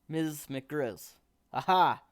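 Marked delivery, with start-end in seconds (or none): 1.5-2.0 put-on gravelly old woman's "Aha". A narrator's reading. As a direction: rasp it out like an old witch. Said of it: "she said in a gravelly voice".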